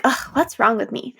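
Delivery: a mildly fed-up "Ugh, what's wrong with me?", asked with no wish for an answer; annoyed self-question. Retold or imitated. Waking up heavy and scolding herself, mildly fed-up. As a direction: brush the feeling off with a small groan. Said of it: "I'm like".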